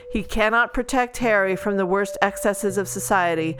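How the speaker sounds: steady back-cover blurb read. Acted. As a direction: read it like a book jacket. Reads the book blurb.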